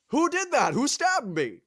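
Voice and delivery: high-pitched wailing question; mock frantic demand. Cyclops getting no answer, high mock-frantic cry. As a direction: demand it in comic distress.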